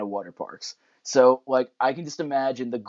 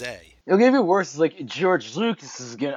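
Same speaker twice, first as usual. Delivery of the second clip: put-on drunk voice. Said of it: "I'm doing a drunk voice".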